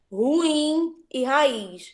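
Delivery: ruim e raiz said very slowly, each split into syllables, ru-im and ra-iz; syllable separation. Shown as a demonstration. Teacher to class showing the split, ru-im e ra-iz. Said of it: "a separação silábica".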